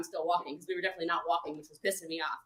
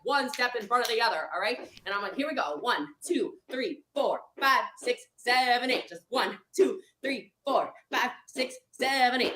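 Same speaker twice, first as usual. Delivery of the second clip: counting coach. Retold or imitated. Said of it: "coach her through it".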